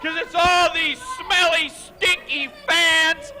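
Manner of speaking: pinched nose voice; clothespin on nose. Real, not acted. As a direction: talk through a pinched nose. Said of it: "you have a clothespin on your nose".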